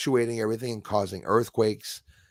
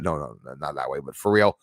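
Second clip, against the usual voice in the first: ordinary talk, nothing marked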